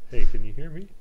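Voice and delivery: very loud call to an unconscious man; loud wake-up shout. Acted. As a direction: yell to rouse him.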